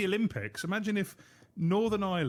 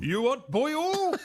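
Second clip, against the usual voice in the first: put-on high, loud, slow Welsh accent; 11 semitones higher, 5 dB louder, slower than usual. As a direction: ham up the Welsh accent, stretching oil. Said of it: "Do that again".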